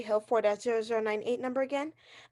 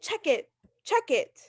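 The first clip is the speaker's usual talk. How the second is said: scornful echo; 3 semitones higher, slower than usual. Acted. Invalid mocking the operator's offer, scornful. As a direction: throw the words back in scorn.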